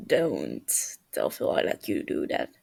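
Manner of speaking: deep, even, dry aside; low deadpan warning. Acted. Techno warning Tommy to keep it secret, low deadpan. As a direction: keep it low and flat like a big brother.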